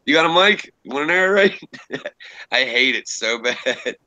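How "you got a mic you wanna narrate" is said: mock eager plea. Mock begging people to narrate.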